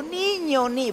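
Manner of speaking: put-on high, drawn-out call to a child. Trapped lizard calls to the boy on the riverbank, calling out. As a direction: stretch the word out, pitched well up.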